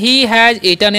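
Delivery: "he has eaten" spoken very slowly and evenly; slow example. Shown as a demonstration. Teacher modelling an English example for students, very slow. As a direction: spell the sentence out slowly for learners. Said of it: "इस तरीके से बोल सकते हैं".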